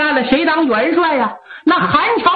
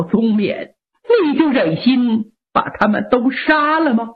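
put-on lower, a touch of tearful old lady; old mother pleading with her son, mild tears; 3 semitones lower than usual. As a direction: grandmother begging for both grandsons.

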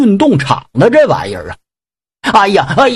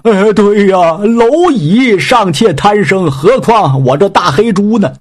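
higher, whining plea for mercy; begging pig demon; 4 semitones higher than usual. Acted. Pig demon begs Yang Jian to spare him, whining. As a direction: grovel and beg to be let go.

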